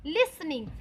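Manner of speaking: लिसनिंग modelled as "lis-ning"; silent T in लिसनिंग. Shown as a demonstration. Teacher answering her own question to students, लिसनिंग with silent T. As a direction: say लिसनिंग without any t. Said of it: "क्या बोलेंगे?".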